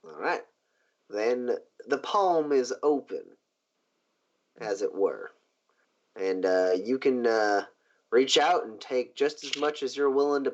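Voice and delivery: measured, pausing businessman sealing a deal; unhurried, lightly played patron; lightly voiced genteel boss. Boss opening his palm to a new debtor, lightly voiced genteel.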